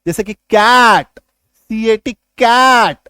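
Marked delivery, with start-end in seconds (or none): 0.3-1.1 कैट with an open "ae" vowel, drawn out; teacher's slow model of कैट; short A sound. Shown as a demonstration. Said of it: "ए का short sound होता है एकार की मात्रा". 2.1-3.0 कैट with an open "ae" vowel; teacher's demonstration of कैट; short A sound. Shown as a demonstration. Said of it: "ए का short sound होता है".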